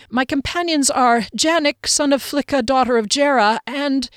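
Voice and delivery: firm, insistent listing. A narrator's reading. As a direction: insist on each name. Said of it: "he said in insistent Elvish".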